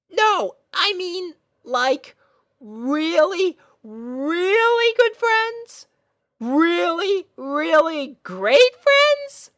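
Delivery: put-on high, slow, drawn-out young girl voice; nervous hinting filly. Girl nervously hinting to her crush, high and drawn out. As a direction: stretch each really, hoping he gets it.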